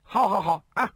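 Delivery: high indignant shout. A narrator's reading. Second brother yells back at the insulting elder brother, high indignant shout. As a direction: yell it, stung and offended. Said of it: "大叫地说道".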